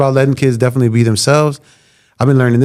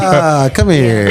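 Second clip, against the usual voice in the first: tender beckon; 3 semitones higher, much slower than usual. Retold or imitated. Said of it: "You're like".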